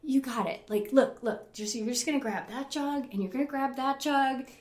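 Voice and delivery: retold supportive coaching; sweet encouragement. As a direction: talk a scared friend through it step by step. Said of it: "they were so sweet".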